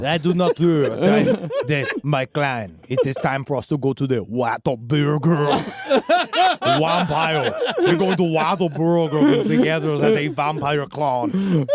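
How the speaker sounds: mock vampire voice. Parodying vampire clan speech.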